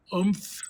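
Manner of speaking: "umph" drawn out on its own; sounded-out syllable. Shown as a demonstration. Teacher sounding out the ending, "umph" as one separate syllable. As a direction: isolate "umph", slow with a soft final sound. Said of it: "how it sounds".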